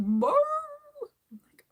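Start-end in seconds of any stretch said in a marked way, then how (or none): 0.0-0.3 loud barked woof; imitated bark. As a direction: bark it out like the dog. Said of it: "She's like".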